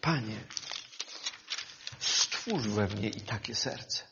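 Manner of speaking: "stwórz we mnie" breathed as a private prayer; hushed heartfelt petition; quiet prayer. Real, not acted. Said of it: "w moim sercu jest to pragnienie".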